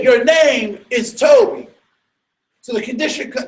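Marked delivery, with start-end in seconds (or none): 0.0-1.7 slow, louder order from the overseer; harsh command. Retold or imitated. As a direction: hammer the new name in. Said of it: "He said".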